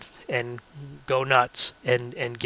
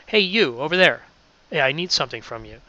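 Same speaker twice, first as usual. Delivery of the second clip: a livelier, more animated call-out; with hand gestures; faster than usual. Shown as a demonstration. Radio host demos reading while gesturing, more animated. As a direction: let the gestures lift the voice. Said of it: "now if I do it with hand gestures".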